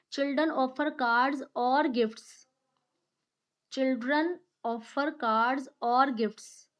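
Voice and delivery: put-on Children offer cards or gifts, with "or" slow and stressed; stress on the wrong word. Shown as a demonstration. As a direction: slowly lean on "or" to show it is wrong. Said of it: "I put emphasis".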